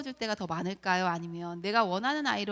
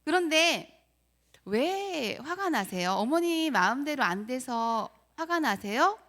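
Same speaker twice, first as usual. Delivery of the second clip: counselor's probing; 3 semitones higher, 3 dB louder, slower than usual. Retold or imitated. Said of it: "이렇게 하시면서".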